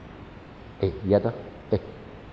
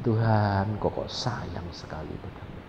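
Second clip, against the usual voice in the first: tearful; 6 semitones lower, 10 dB quieter than usual. Retold or imitated.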